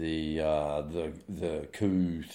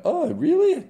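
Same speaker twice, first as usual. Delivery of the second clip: much higher, louder mock surprise; sarcastic; 9 dB louder, slower than usual. Real, not acted. Host scoffing at stale intelligence headline, sarcastic.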